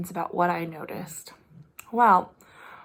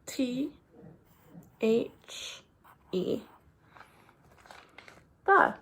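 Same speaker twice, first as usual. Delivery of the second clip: spelling letter by letter; 3 semitones higher, 3 dB quieter, much slower than usual. Shown as a demonstration. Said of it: "All right, ready?".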